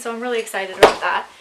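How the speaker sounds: fast breathless talk; rushing while winded; out of breath. Real, not acted. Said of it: "I'm so out of breath".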